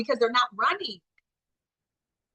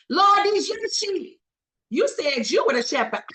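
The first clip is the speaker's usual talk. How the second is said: pleading prayer; 5 semitones higher than usual. Retold or imitated. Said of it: "I say".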